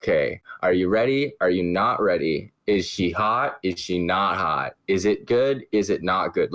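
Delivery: light Canadian lilt with rising questions; a hint of a Canadian accent. Shown as a demonstration. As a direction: run through the eh questions with a mild Canadian lilt. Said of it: "Like, a is".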